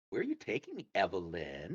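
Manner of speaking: character voice, with name. Shown as a demonstration. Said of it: "Use her name, Evelyn".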